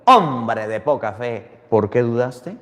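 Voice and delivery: low, slow gentle rebuke; calm Jesus reproaching; voicing Jesus. Jesus voiced rebuking Peter.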